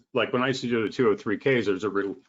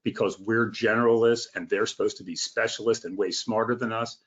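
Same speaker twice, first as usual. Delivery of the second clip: ordinary talk, nothing marked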